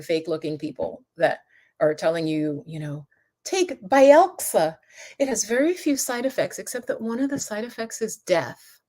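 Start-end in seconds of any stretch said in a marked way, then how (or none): 3.4-8.8 mock drug ad voice. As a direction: play the smooth pitchman selling pills. Mocking a drug commercial.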